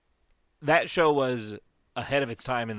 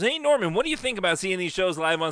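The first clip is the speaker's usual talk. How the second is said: talk show host voice; 7 semitones higher, 3 dB louder than usual. Retold or imitated. Impersonating Jimmy Kimmel.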